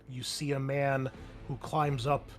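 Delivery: ordinary delivery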